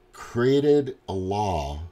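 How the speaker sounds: ordinary talk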